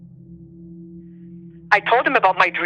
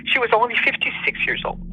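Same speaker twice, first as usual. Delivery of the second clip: choked up; 3 semitones higher than usual. Real, not acted. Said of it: "I'm very emotional when I think about this".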